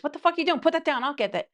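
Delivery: high-pitched, indignant telling-off; mock scolding. Partner stopping someone carrying all the groceries, mock scolding. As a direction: take over in playful exasperation.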